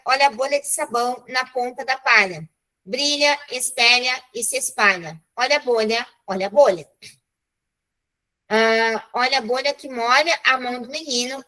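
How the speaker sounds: reads each line of the poem aloud with care; poem recitation. Acted. Teacher reading the bubble poem to the class, recited. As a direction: lets every olha a bolha ring out.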